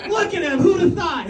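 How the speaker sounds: high-pitched feigned amazement; mock admiration. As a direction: marvel at an unlikely success. Mimics admirers of his accomplishment.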